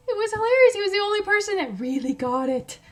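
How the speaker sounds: high, loud, laughing through the words; real amused laughter. Real, not acted. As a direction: still cracking up while talking. Laughing over her punchline.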